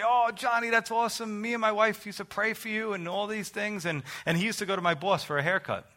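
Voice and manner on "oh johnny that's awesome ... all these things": higher, lightly voiced pleased reply; re-enacted delight. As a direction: imitate a delighted well-wisher, pitch lifted. Old man's delighted reply, acted.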